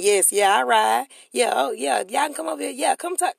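mock the pushover who agrees to all; eager yes-sayer. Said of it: "So just you saying".

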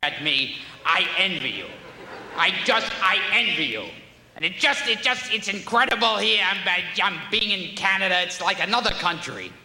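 a hint of a squawking comedian; Gilbert Gottfried impression. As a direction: rant about Canada like a cranky comic. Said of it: "every time Gilbert Gottfried's performs".

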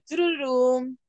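spoken "churururum" build-up; mock drumroll fanfare. Host cueing co-host's big announcement, voiced drumroll. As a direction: imitate a little reveal jingle.

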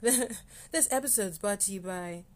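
slow, laughing fake ad voice; mock podcast ad read, laughing; mock sponsor read. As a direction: announce it like a joke sponsorship. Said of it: "I'm just joking".

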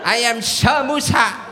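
knight's oath. Pretend.

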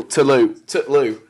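"Tulou", said as one short word; fuse "to the loo" into "Tulou"; northern contraction. Shown as a demonstration. Showing northern speech to a newcomer, demonstrating "Tulou". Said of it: "if it's a vowel next to the word after".

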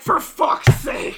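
loud, slow, drawn-out exasperation, retold; exasperated. Mom retelling being transferred to poison control, exasperated.

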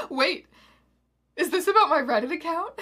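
evil questioning. A narrator's reading. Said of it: "questioned evilly".

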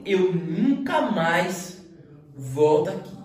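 NUNCA MAIS drawn out slowly; forceful vow. Retold or imitated. Son swearing off his father's building work, determined. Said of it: "com a força do, do pensamento".

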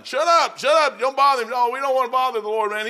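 loud, high, scolding the blind beggar; crowd shushing. Acted. Crowd scolds blind Bartimaeus to hush, loud and high. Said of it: "blind Bartimaeus crying".

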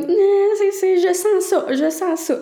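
high, loud urgent insistence. Retold or imitated. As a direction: insist it's happening now. Urgent labour, tells partner.

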